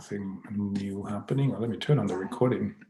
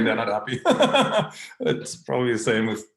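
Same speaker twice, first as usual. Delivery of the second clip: laughing; 2 semitones higher, 5 dB louder than usual. Real, not acted. Joking about Australians and New Zealanders.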